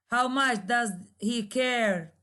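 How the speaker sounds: "How much does he care?" falling on "care"; falling intonation. Shown as a demonstration. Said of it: "there is a falling intonation".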